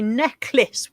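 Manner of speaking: "necklace" with the S drawn out; slow "necklace", emphasis on its hissed S; stressed S. Shown as a demonstration. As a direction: lean on the S sound in "necklace". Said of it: "with emphasis on the s".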